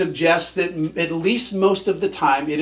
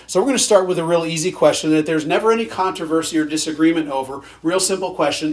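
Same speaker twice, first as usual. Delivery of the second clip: dry mock-innocent setup; sarcastic; faster than usual. Shown as a demonstration. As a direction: say it deadpan, tongue in cheek. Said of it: "I'm being sarcastic".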